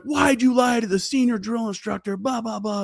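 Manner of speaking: high, lightly voiced drill instructor. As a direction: snap the question like a drill instructor.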